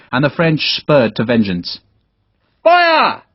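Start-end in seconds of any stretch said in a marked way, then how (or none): 2.6-3.2 one word blasted out, high and loud; shouted order. Acted. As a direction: give the order to fire. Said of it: "Sharp called".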